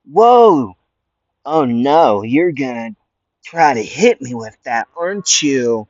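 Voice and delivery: hammed-up villain going "whoa", mock scared; mock alarmed taunt. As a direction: pretend to flinch, then taunt him.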